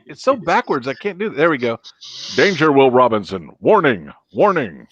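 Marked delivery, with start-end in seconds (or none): 2.4-4.9 robot alarm, each warning falling; Lost in Space robot. Acted. Host playing robot in space helmet, alarm impression. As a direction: call out separate warnings like a robot. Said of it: "this was the Lost in Space helmet".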